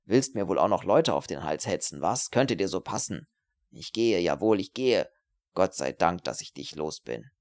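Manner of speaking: low, swooping contempt; bitter parting tirade; spiteful, angry student. Acted. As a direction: jeer at her while retreating. Voices spiteful Herbert.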